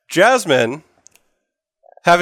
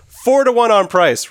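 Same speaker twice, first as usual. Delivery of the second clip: shouting bets; 5 semitones higher, 3 dB louder, slower than usual. Acted. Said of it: "Rick th-, shouts out".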